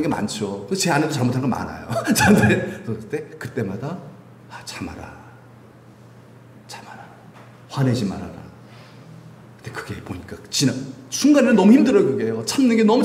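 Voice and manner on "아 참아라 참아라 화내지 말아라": hushed, low self-admonition; very soft, low inner voice; restraining self-talk. Acted. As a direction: murmur it to yourself to hold back.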